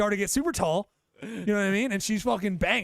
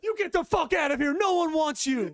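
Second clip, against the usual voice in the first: mock yell; 10 semitones higher, 3 dB louder than usual. Mock shouting at dog.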